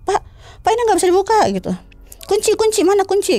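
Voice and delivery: high, frantic calls for the key; urgent, scared pleading for the key; panicked. Retold or imitated. Trapped cleaner frantically begs the guard for the key. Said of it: "Panik saya kan".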